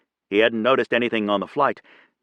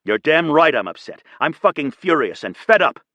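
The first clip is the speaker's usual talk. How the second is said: higher and louder, furious yell; shouting; 6 semitones higher, 5 dB louder than usual. A narrator's reading. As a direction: blow up at her in fury. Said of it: "shouting at her".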